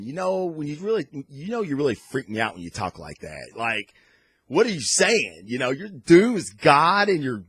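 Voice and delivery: high, loud, disbelieving outburst; half-laughing what are you saying; incredulous Carol. Retold or imitated. Carol hearing Strange's claim, high incredulous outburst. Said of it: "Carol has a great line going".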